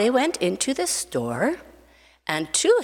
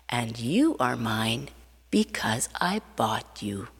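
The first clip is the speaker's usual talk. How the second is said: tender; 2 semitones lower than usual. Acted. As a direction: murmur it lovingly. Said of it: "his dad heard him say".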